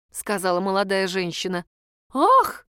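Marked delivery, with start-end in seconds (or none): 2.1-2.7 high loud gasping ah; hammed-up shocked gasp. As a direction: gasp like hearing scandalous news. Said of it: "ахнула будущая свекровь".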